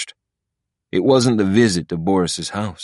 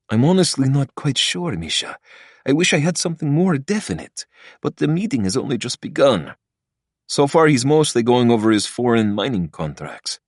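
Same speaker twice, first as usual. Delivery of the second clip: lightly voiced jittery lawyer; a hint of a nervous lawyer, hushed; nervous attorney voice; 7 semitones higher than usual. A narrator's reading.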